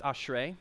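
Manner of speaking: "ashrei" shown as AHSH-ray; Hebrew pronunciation. Shown as a demonstration. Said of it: "It's pronounced ashrei".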